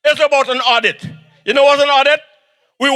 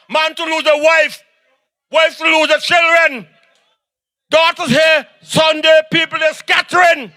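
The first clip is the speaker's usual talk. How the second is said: rally oratory; 3 semitones higher than usual. Acted. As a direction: rouse the crowd line by line. Rally speech at full force.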